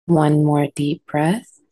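unhurried sleep-guide delivery, long pauses between steps; guided relaxation. Acted. Sleep guide settling listeners before bedtime stories, calm guided relaxation. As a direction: ease listeners toward sleep, step by step.

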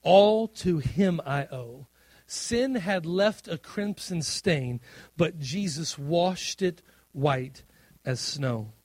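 put-on slow, reverent recital of the old hymn; slow hymn quote. Pastor recites a beloved hymn to the church, slow and reverent. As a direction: savour each line of the hymn slowly. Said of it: "I love the old hymn".

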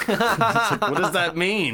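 high, loud laughing question; laughing disbelief. Real, not acted. Mocking the odd movie line, laughing high and loud. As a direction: laugh at how absurd it sounds.

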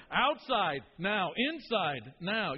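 clipped parental commands, loud on key words; dad's curt commands. Retold or imitated. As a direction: bark each one-word order like a father losing patience. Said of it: "would jettison completely verbs from his vocabulary".

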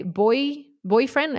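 put-on emphasize "boy" in "boyfriend"; stress on boy. Shown as a demonstration. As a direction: lean on the word "boy", setting it apart before "boyfriend". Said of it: "I emphasize the word boy".

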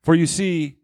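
slow, portentous reveal with long pauses; theatrical announcement. Acted. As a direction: dole it out phrase by phrase for suspense. Theatrically announces his video pick.

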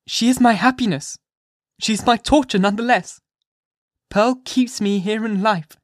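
high, loud, impassioned mother at bay; fierce defiance. A narrator's reading. Hester to the magistrates, fiercely refusing to give up Pearl. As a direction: defy them as if ready to die for her. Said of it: "this wild and singular appeal".

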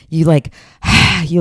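big audible sigh of release; dramatic sigh. Shown as a demonstration. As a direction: let out a long sigh. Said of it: "Even as I'm describing this, I'm sort of doing it".

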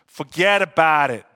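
mock Italian wiseguy accent. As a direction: lightly ham up an Italian accent. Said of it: "take a little Italian accent there".

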